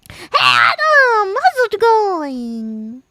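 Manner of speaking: high slow shouted greeting; calling out. Pretend. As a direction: call out across the room. Calls greeting in game.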